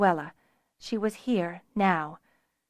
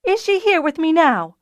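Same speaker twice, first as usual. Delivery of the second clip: higher, louder anguished plea; voice breaking; 8 semitones higher, 7 dB louder than usual. A narrator's reading. Nuella cries out her question to Fiona, voice breaking. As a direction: push the question up into a cry. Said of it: "her voice breaking".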